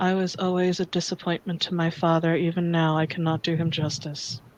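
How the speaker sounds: quiet mutter under the breath. Alfred gives up his claim and speaks so only you can hear, Alfred muttering so only you hear. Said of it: "he mutters to where only you can hear".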